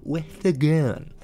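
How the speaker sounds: loud, rising, slow final words; tough Montana shout. Acted. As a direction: bark it like a tough rancher. Montana home defense boast.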